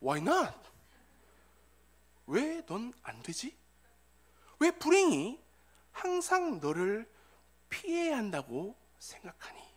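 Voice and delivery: slow, lightly voiced reply from heaven; heaven's answer. Heaven answering the complaining Viking, lightly acted slow reply. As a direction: answer in measured, spaced phrases. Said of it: "하늘에서 응답이 왔습니다".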